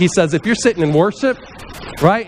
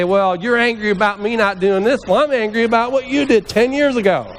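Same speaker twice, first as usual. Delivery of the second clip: mock deflecting retort; 5 semitones higher than usual. Deflecting another's anger onto them, mock indignant. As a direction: pitch climbing into a put-on comeback. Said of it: "or deflect and say".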